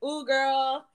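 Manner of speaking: high, loud, laughing self-praise; delighted, laughing brag; proud and giddy. Retold or imitated. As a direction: gush about yourself, giggling. Proud boast after ordering in French.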